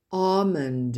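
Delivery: "Almond" as "AH-mund", no L; silent L. Shown as a demonstration. Teacher modelling a silent letter, "Almond" without L. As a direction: leave the L out of "Almond". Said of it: "vous entendez pas le, la lettre L".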